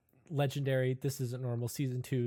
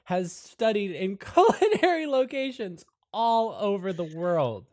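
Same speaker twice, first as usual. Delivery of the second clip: high, loud presenter cover-up; perky show host Savannah; 10 semitones higher, 10 dB louder than usual. Acted. Savannah J explains away Tomothy's accent, perky host. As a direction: project it brightly, close to laughing.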